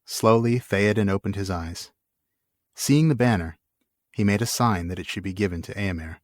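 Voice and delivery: steady, measured reading of an epic; story narration. A narrator's reading. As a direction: read it like a solemn saga. Reads the book aloud.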